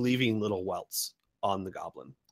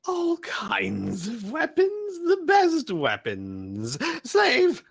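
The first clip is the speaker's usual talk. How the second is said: eager sales pitch; 14 semitones higher, 4 dB louder, slower than usual. Acted.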